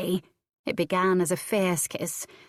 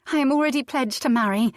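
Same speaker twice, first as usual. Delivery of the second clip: desperate lie; 7 semitones higher, 5 dB louder, faster than usual. A narrator's reading. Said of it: "Cicely lied desperately".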